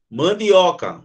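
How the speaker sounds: "Mandioca" with "dio" as one gliding syllable; correct diphthong. Shown as a demonstration. Teacher models "Mandioca" for the class, correct diphthong. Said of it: "não é mandioca".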